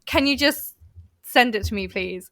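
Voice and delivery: plain, curt request dropping away at the end; curt text voice. Shown as a demonstration. Showing how a text reads to a coworker, curt text voice. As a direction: read it like a terse text message. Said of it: "It sounds way worse".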